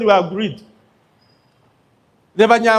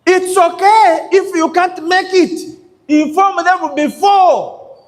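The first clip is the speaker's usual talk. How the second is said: raised urging; 6 semitones higher, slower than usual. Real, not acted. Speaker urges the audience firmly.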